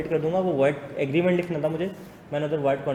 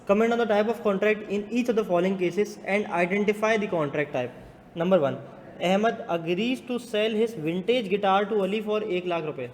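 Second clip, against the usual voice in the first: higher-pitched classroom read-out; reading question aloud; 4 semitones higher, much slower than usual. Real, not acted. Teacher reading a contract case to students, projected read-aloud.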